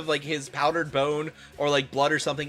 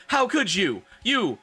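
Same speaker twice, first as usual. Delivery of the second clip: mock angry; 10 semitones higher than usual. A narrator's reading. Draco yelling at Ebony.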